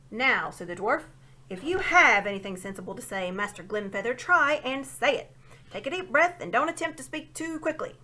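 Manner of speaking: put-on a deaf old dwarf shouting his grievance; shouting old dwarf who can't hear; loud old dwarf. A narrator's reading.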